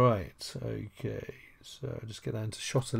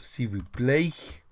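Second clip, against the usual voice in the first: S'il vous plaît said slowly with a rise on plaît; slower modelling; 2 semitones higher, slower than usual. Shown as a demonstration. Teacher repeating the phrase for the class, slowly.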